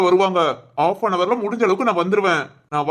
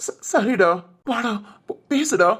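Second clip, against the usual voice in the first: stammering, tearful agreement; crying; slower than usual. Acted. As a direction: get the words out between sobs. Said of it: "அழுகையை நிப்பாட்டு". (விம்மியபடி தடுமாறி)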